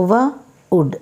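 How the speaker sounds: wood split apart; sound-by-sound demo. Shown as a demonstration. Teacher sounding out "V-ood" for students. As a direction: say "V-ood" in two parts, v then ood.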